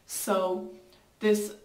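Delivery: sheet mask on face; speaking through mask opening; wearing a face mask. Real, not acted. Seen 0: Gel sheet mask covers face; lips show through mouth opening.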